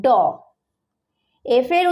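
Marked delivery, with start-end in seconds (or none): 0.0-0.1 ড said alone as the sound of D; D's sound ড, isolated; letter-sound demonstration. Shown as a demonstration. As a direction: sound out ড after a pause. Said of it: "ডি উচ্চারণ হয়".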